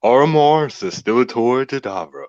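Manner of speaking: grand, posh heroic pronunciation; posh accent. Shown as a demonstration. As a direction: say the name like a posh hero. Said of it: "a heroic or, like, a posh accent".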